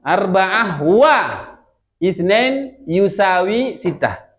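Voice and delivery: very slow, word-by-word Arabic demonstration; model reading. Shown as a demonstration. Teacher showing how to read a sum, slow model reading. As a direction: stretch out each Arabic word for learners. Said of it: "Gimana bacanya?".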